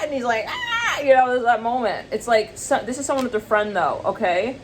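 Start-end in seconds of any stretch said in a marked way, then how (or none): 0.5-1.0 very high mock alien shriek; freaked-out scream. E T screaming back at the girl, freaked-out mock shriek. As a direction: squeal in pretend fright, way up high. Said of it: "E T, like, gets freaked out".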